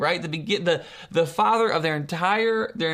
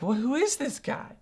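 higher, baffled question; incredulous reaction; 5 semitones higher than usual. Acted. Baffled crowd reacting to Jesus.

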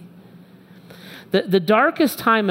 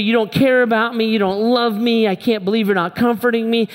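higher-pitched, mildly acted accusing whine; angry complaint; 4 semitones higher than usual. Husband silently blaming his wife at night, mock angry. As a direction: complain like someone wronged, half in earnest. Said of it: "And so I'm just angry".

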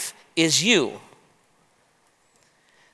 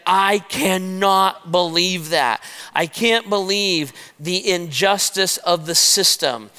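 mild acted outrage. David hearing Nathan's story of the stolen lamb, mildly outraged. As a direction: voice David's outrage without much force. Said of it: "the Bible says David was furious".

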